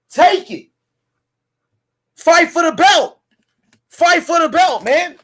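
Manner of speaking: rally them to take the fight; hype-man challenge shouted at the rival camp; fired-up call-out. Real, not acted. Calling out the opponent's camp.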